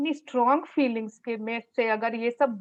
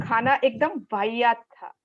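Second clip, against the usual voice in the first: "खाना एकदम वाहियात था" said with relish; relished complaint. Shown as a demonstration. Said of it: "तब जाके हमको मजा आया".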